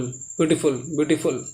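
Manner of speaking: ब्यूटीफुल run together quickly as one word. Shown as a demonstration. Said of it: "ऐसे जल्दी से बोलोगे".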